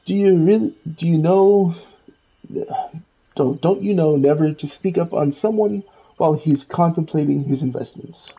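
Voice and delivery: put-on Scottish Scrooge accent. Miserly old duck scolds the player in a Scottish accent. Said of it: "I'm not good at a Scottish accent".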